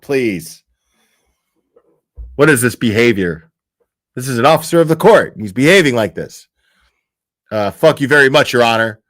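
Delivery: hammed-up courtroom objection; mock indignant objection. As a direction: object loudly like an offended lawyer. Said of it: "And then they'd be like".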